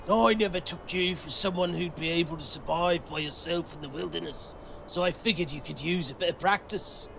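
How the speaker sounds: hint of a fake Italian accent; mock Italian accent. Lambert sneering at the hunter, lightly faked Italian accent. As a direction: put on a not-at-all-authentic Italian accent. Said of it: "This is authentic Italian accent".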